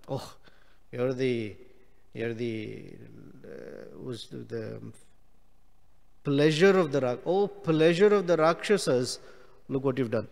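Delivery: lightly sarcastic scolding; a hint of a wife's bitter reproach; mildly sarcastic rebuke of her husband; mock lament. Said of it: "this is sarcasm".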